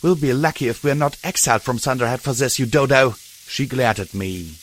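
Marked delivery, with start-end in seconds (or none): 0.0-3.2 angry. Acted. Sister's angry scolding.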